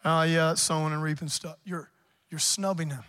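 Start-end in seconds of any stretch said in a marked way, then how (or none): 0.0-1.6 lower, offhand scoffing aside; dismissive snub. Retold or imitated. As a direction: sneer it off like God's word bores you. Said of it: "It's like you're throwing your nose up".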